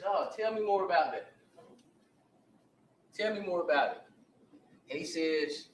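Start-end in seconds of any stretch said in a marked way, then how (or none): 0.0-4.0 higher, louder keen interest; mock eager cop; eager prodding officer. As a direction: lean in, hungry for details.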